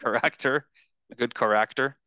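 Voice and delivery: character again with the flat, open a; Guyanese character. Retold or imitated. Showing a friend the Guyanese word, imitating character. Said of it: "they say character".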